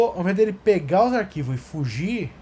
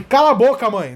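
put-on snapping kid; 5 semitones higher, 4 dB louder than usual. Kid snaps at mother.

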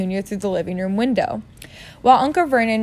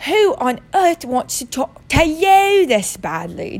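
put-on high, slow, loud amazed kid voice; 7 semitones higher, 4 dB louder, slower than usual. A narrator's reading. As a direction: gasp it in amazement. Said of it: "in amazement".

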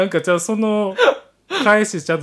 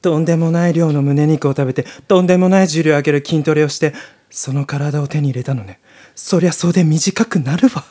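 slightly louder, amazed character voice; lightly voiced admiring character; 2 semitones lower, 4 dB louder than usual. Character marveling at the soldier's body, amazed. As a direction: marvel at the muscles.

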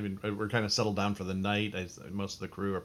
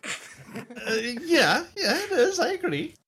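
higher, nervous captain voice; 13 semitones higher, 7 dB louder than usual. Acted. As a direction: play the captain, uneasy. Captain talks to Dugald.

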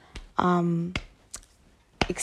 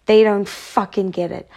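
frustrated; 5 dB louder than usual. Real, not acted. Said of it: "I sound so mad".

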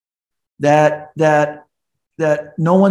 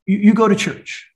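mad mom; 6 semitones higher, 4 dB louder than usual. Retold or imitated. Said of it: "And they're mad".

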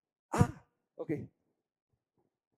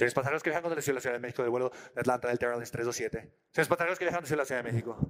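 lower, official announcer voice; gate announcement; 8 semitones lower, faster than usual. Retold or imitated. Gate agent announces the flight to passengers in announcer voice. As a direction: call it over the airport speakers.

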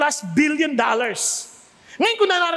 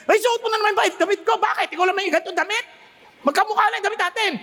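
quick, higher, hammed-up bickering sister; mock sibling quarrel; 5 semitones higher, much faster than usual. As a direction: snap at your sibling over a borrowed shirt, quick and mock. Siblings quarrelling over clothes.

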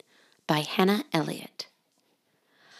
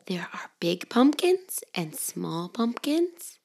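soft hushed storybook whisper; whispered story reading; 4 dB quieter than usual. Acted. Mother reading to children in a soft whisper. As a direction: hush it like a bedtime book.

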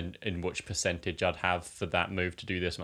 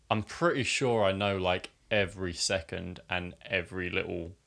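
holding back a burp; talking through a suppressed burp; burping the words. Real, not acted. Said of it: "Sorry, my throat was regressing a burp there".

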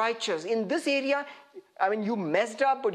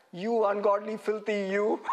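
laughing mock insult.

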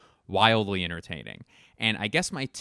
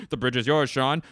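movie crew impression; 3 semitones higher than usual. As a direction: relay it in a near-normal voice. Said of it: "here's my impression of".

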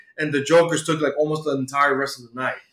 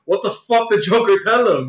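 laughing mock panic; 5 semitones higher, 3 dB louder than usual. Penguin panics, teller laughing.

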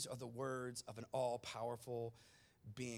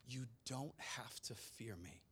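gently lowered and softer; soft reassuring; 4 semitones lower, 8 dB quieter than usual. Shown as a demonstration. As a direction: tell them softly there is nothing to fear. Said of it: "contrast with next line".

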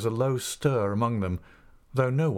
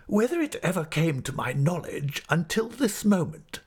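falsely polite schoolmaster; 9 semitones higher than usual. Acted. Creakle demands public declaration.

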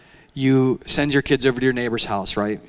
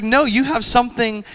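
firm rebuke; 8 semitones higher, 5 dB louder than usual. Retold or imitated. Heavenly father pushes back firmly.

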